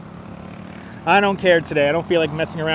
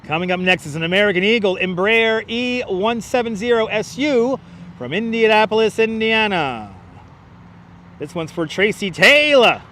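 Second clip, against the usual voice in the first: announcer; 2 semitones higher than usual. Pretend. Spotter announcing the next plane for a viewer, announcer voice. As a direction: announce the flight with showy, stretched endings.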